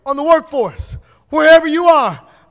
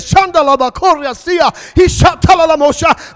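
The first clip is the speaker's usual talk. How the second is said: rapid tongues, rising louder; speaking in tongues; 4 dB louder than usual. Real, not acted. Preacher breaking into tongues before the church. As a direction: let the tongues pour out.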